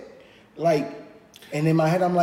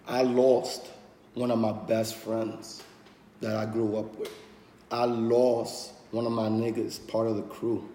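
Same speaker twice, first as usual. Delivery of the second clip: grieving softly; 4 semitones lower, 5 dB quieter than usual. Real, not acted. Mourning friend lost to suicide.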